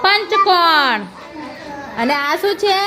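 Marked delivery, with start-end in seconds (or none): 0.0-1.0 slow, stretched syllables; drawn-out naming. Shown as a demonstration. Teacher gives the class a shape name, slowly.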